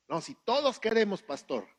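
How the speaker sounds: high, loud, eager mock answer; eager volunteering. Preacher imitating a rash believer answering for all, high and eager. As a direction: jump in for the whole group. Mimicking someone speaking for everyone.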